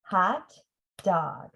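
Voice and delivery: Hot and dog as two beats; syllables apart. Shown as a demonstration. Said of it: "Let's try it together".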